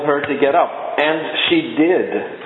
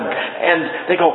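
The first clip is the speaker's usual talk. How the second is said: ordinary delivery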